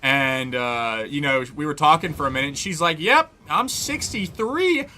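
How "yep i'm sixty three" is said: put-on calm older woman. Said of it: "calm accent to her".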